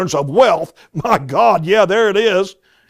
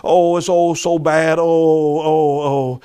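mock whining; slower than usual. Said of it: "they're murmuring".

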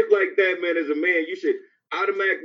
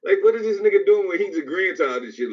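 shocked outrage. Retold or imitated. Retelling his reaction to lyrics.

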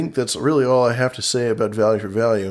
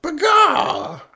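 high chicken bawk; chicken squawk. Acted. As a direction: squawk it like a hen. Caller sign-off chicken call.

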